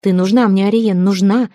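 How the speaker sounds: nearly shouting, desperate. Acted. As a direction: insist hard, almost yelling. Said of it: "почти кричал он".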